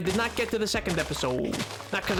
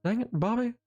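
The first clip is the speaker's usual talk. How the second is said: Hank Hill impression. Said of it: "that's about as best as I can do".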